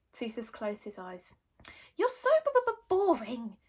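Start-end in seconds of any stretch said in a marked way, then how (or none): 1.9-3.6 high stuttering sulk; sulky dragon. Acted. Toothless sulking at Hiccup, stuttering whine. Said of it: "he said sulkily".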